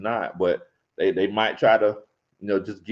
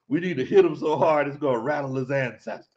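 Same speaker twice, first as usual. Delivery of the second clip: mimicked movie line. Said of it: "Why you say it like that".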